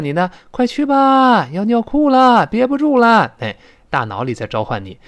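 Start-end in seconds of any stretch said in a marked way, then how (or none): 0.5-3.3 high-pitched, pressing urging; hammed-up alarm, pitched way up; urgent call. Teacher voices the body urging you to the toilet, urgent.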